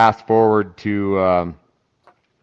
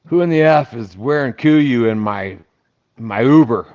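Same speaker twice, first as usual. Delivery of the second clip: angry retold demand; 3 semitones higher, 5 dB louder than usual. Angry owner confronts stranger.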